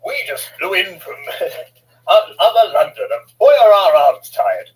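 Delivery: ventriloquist voice. Acted. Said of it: "through ventriloquism".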